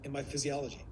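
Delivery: soft, open, with lingering pauses; slowed-down lover. Shown as a demonstration. Coach shows the lover range, slowed down. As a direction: ease off and leave gaps between phrases. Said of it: "I'm open and I slow down".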